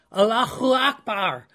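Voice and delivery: rally troops with "Allahu Akbar"; battle cry. Retold or imitated. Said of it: "used it as a battle cry".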